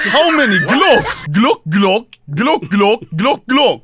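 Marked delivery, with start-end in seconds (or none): 1.3-3.8 Glock Glock said in gulping fish-like pops; fish sounds. Pretend. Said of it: "You sound like a, like a fish".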